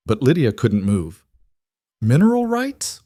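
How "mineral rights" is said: sharp high rising question; stunned. Acted. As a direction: echo it in disbelief. Stunned echo of his words.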